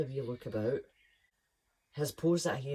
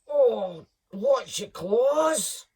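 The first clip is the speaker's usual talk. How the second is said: much higher, loud slow squeak; 10 semitones higher, 11 dB louder, much slower than usual. Acted. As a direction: squeak as claws dig in. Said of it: "he squeaked".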